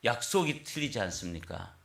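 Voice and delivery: mild mock outrage; retold angry complaint. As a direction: accuse God of breaking a promise, half acted. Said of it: "또 막 화를 냈다는 거예요".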